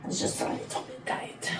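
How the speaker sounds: whispered mock French accent; breathy French murmur, playfully. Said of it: "See, I'm French there".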